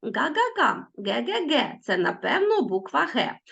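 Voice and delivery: lightly voiced playful rhyme for children; a hint of a storyteller reading to kids; poem recitation. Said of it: "поетична хвилинка".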